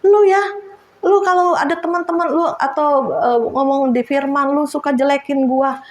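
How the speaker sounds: mock grumbling husband; complaining husband. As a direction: mimic a husband accusing his wife. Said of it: "kemarin juga ngomong gini".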